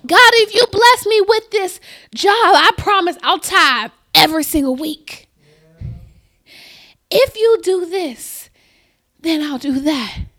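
loud, pleading mock prayer; bargaining prayer. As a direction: play the believer haggling with God. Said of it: "we try to use those same conditional statements on, on God".

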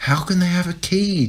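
high panicked wail. A narrator's reading. Jack panicking at the key in the lock, high wail. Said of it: "Jack wailed".

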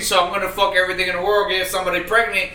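high, loud, fast whiny man voice; mocking a horny man. Mocking men to friends in a high, loud whine. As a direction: whine it out like a hammed-up guy. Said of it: "and the man be like".

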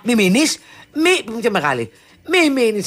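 high, urgent begging; pleading. Retold or imitated. Daughter begging mum not to stay at the party.

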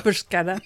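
BRUSCHETTA said brus-KET-ta. Real, not acted. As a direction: say bruschetta with a hard K. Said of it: "the way you pronounce bruschetta".

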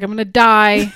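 mock dramatic dread. Guest admitting dread of a hot wedding day, mock dramatic. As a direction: exaggerate the dread, punched loud.

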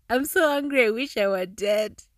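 mock whiny tantrum, cracking up; laughing while quoting. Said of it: "This is so wrong that I'm laughing".

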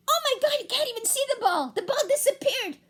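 high, loud shouts of joy; excited cheering. Acted. Narrator cheering Bella's winning home run, high and loud. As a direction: cheer the win like a delirious fan.

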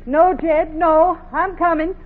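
high, loud, hurried denial; nervous answer. Acted. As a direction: cover up fast and call back. Wife answers husband nervously.

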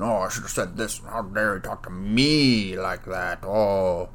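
indignant inner rant. Retold or imitated. Replaying argument in head.

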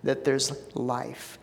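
soft, unhurried prayer voice. Real, not acted. Pastor praying over the service, soft and reverent. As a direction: pray gently and sincerely to the Father.

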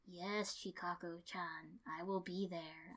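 lightly voiced lazy teacher, soft; a hint of Kakashi's slow drone. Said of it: "I said for him".

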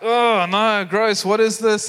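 mock disgust of kids; weirded out. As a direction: imitate kids recoiling from raw chicken. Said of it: "weirded out by this".

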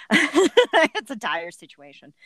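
slow, loud and grave; mock dramatic. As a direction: ham up the dire tone. Dramatic repeat of dire situation.

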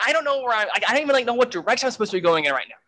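high, fast panicked babble; panicked thought. Retold or imitated. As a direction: race through it, lost and frightened. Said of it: "I'm panicking even more".

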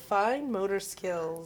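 slow, deliberate professional delivery; teacher voice. Acted. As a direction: spell it out like a teacher. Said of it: "Very professional sounding there".

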